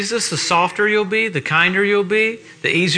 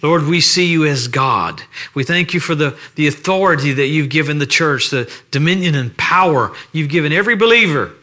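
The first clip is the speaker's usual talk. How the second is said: pastoral prayer; 3 semitones lower than usual. Acted. Preacher praying over the church on Sunday morning, reverent. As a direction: pray it unhurried, reverent and sincere.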